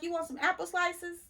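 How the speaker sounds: high, sing-song mock cashier offer; mimicking the cashier. Voicing the cashier girl.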